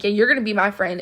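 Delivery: mildly pushy, imitating an aggressive girl; understated imitation of an aggressive demand; mock aggressive tone. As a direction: retell it as a pushy demand, lightly. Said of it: "like, an aggressive tone".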